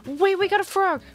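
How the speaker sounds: high, loud burst of joy; wait, we got a frog, bursting with delight; excited shout. Real, not acted. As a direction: yell it out, thrilled to finally see one.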